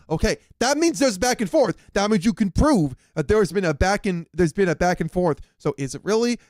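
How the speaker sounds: mildly hyped, emphatic rush of realization. Real, not acted. Reactor working out that the calls show back and forth, hyped. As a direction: excitedly piece it together. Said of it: "I'm so hyped about this".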